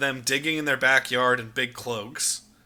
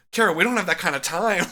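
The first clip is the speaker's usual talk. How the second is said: Art's exasperated retort; 5 semitones higher, 3 dB louder, faster than usual. Retold or imitated. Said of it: "And Art just goes".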